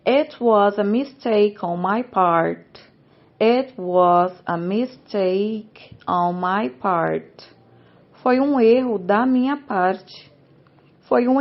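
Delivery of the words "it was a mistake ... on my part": slow model phrases. Shown as a demonstration. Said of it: "sempre repetindo após eu falar".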